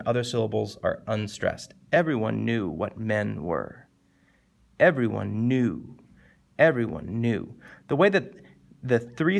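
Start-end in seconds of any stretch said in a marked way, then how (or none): 1.9-7.5 slow verse, "knew" held long and weighty; landing on knew. Shown as a demonstration. Teacher showing where the rhythm lands, "knew" held long. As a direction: let "Everyone" run down onto a drawn-out "knew". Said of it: "it makes you land on that word knew".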